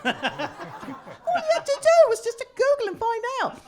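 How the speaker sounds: high, slow and laughing. Real, not acted. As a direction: laugh the punchline out slowly. Laughing at the racists.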